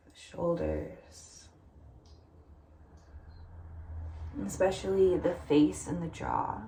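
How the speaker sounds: gentle meditation guide, long pauses between phrases; unhurried guided-meditation cueing. Acted. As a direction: lightly guide them into letting go, leaving room to breathe.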